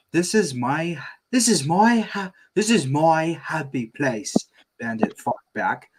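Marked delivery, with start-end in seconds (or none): 0.1-4.3 pleading dad voice. Acted. Bandit pleading.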